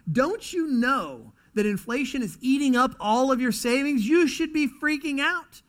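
builds from hushed to high, loud alarm; panicked onlooker. Retold or imitated. A stressed person to the calm one in the corner, rising to panic. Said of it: "you're like".

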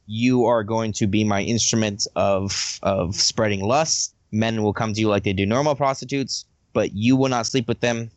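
lightly voiced commanding goddess. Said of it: "Goddess basically is like".

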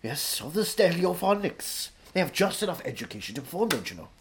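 lightly voiced Welsh raconteur; Anthony Hopkins. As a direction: hold forth as a theatrical Welsh actor.

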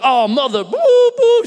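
high, loud bleeped-out swearing; a squawking burst of cut-off curses; mock cursing. The caught thief cursing as he is busted, mock outburst. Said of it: "started cursing".

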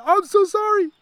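retold apology. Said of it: "I said".

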